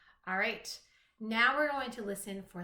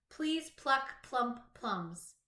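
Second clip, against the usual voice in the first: "Please pluck plump plums" said very slowly, each opening P stressed; slow alliterative read; 3 semitones higher, much slower than usual. Shown as a demonstration. Teacher to young pupils, very slow with each P stressed. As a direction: stretch it out and hit every opening P. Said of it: "all the words in the sentence have the same beginning sound".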